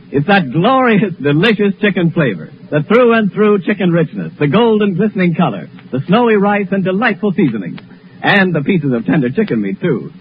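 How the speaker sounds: lightly savoring ad read, unhurried on glorious. Acted. Announcer selling soup to listeners, savoring. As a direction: relish each word of the soup pitch lightly.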